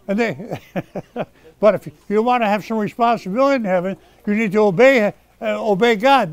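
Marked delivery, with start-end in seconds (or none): 0.6-1.2 chuckle. Real, not acted. Still amused by his aside.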